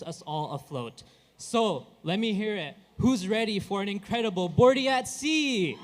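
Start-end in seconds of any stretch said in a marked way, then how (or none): 1.4-5.8 hype shout. Real, not acted. Emcee hyping up the crowd.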